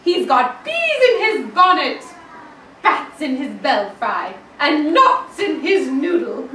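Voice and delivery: loud, laughing mock-scandalised chant; loud teasing gossip with laughter. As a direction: rattle it off giggling. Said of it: "the people said".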